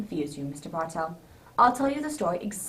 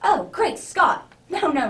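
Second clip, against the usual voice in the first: slow, high, loud dismay; startled exclamation; 6 semitones higher, 7 dB louder, slower than usual. Acted. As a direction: caught out, realising he forgot. Watson forgot his sack of presents.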